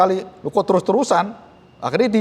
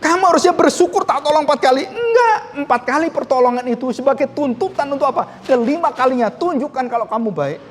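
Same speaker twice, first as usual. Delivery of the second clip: higher, fast, exasperated scolding; indignant retort; 6 semitones higher than usual. Retold or imitated. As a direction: snap back at the ingrate. Preacher retorts to ungrateful man.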